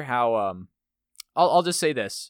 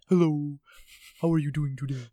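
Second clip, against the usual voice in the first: overly polite voice; 3 semitones higher than usual. Retold or imitated. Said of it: "Did you talk like that to him?".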